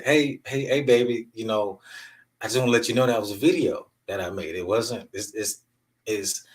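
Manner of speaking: retold letting a little girl down easy; gentle dad talk. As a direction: haltingly break it to your child. Father gently confessing to young daughter.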